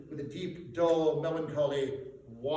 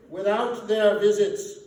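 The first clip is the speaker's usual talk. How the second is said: ghostly voice; 4 semitones higher, 11 dB louder than usual. Acted. Ghost speaks.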